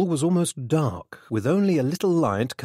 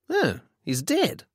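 slow, raised note of surprise; mild surprise; 7 semitones higher, slower than usual. A narrator's reading. Son straightens up from the body, mildly surprised. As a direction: draw it out, mildly taken aback. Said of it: "he said in surprise".

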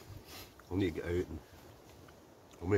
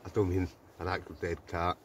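chewing noisily. Real, not acted. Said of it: "Sorry, I'm eating this chocolate".

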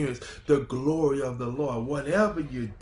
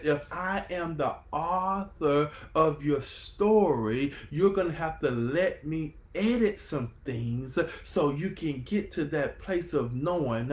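slower retelling. Acted. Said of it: "I'm gonna say that one more time".

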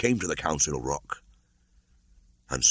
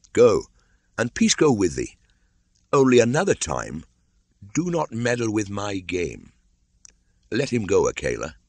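put-on commanding boy; 5 semitones higher, 3 dB louder than usual. Mowgli dismisses the frightened hunter.

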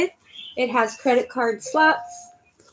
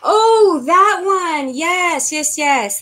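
sudden recognition; 5 semitones higher, 4 dB louder, much slower than usual. Real, not acted. Realizing which bag is meant.

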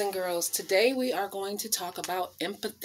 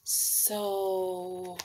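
dramatic whisper; much slower than usual. Acted. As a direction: drop to a whispered so angry. Drop after the build.

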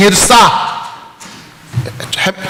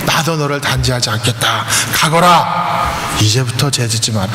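gentle Jesus; 4 semitones lower than usual. Retold or imitated. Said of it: "그러니까 예수님께서".

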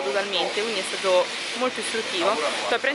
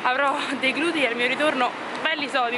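breathless on a steep climb; out of breath; 4 semitones higher than usual. Real, not acted. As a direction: puff out words between breaths. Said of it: "Scusate il fiatone".

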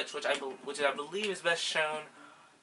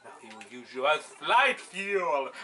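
villain voice; 2 semitones higher, 4 dB louder, slower than usual. Pretend. Villain voice for the shell.

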